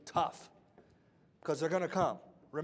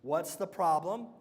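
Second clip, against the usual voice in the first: slow dictation; 4 dB louder, slower than usual. Shown as a demonstration. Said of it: "Everybody write this down".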